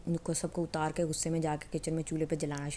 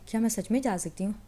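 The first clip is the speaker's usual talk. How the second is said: amazed disbelief; 4 semitones higher, 3 dB louder than usual. Acted. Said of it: "اتنی حیران ہو کے دیکھتی ہے".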